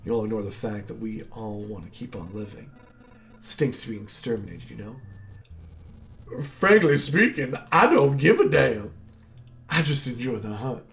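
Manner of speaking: a hint of a smug southern hunter. Voicing the Hunter boss dialogue.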